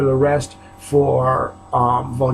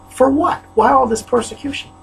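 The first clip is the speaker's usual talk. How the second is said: raised voice; 10 semitones higher than usual. Real, not acted. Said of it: "This is what's making me raise my voice".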